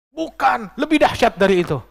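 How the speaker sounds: high, loud mock wail; imitated tearful protest. Weeping mother correcting the sheikh, imitated distraught wail. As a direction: protest as if crying, rising to a near shout. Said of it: "Ini ibu datang menangis".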